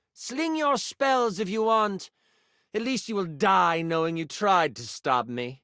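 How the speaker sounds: taunting villain, drawing out the challenge; haughty, theatrical dare; Melville. Acted. Villain taunts the hero who tries to stop them, haughty. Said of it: "monologue as Melville".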